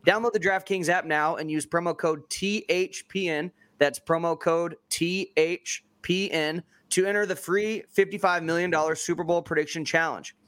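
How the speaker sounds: upbeat ad read; booming prize announcer. Acted. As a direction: sell the prize giveaway with energy. Sponsor ad read.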